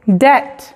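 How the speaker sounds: "Debt" said det; teacher demo; silent b. Shown as a demonstration. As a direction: model "Debt" with no b. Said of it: "la B es muda".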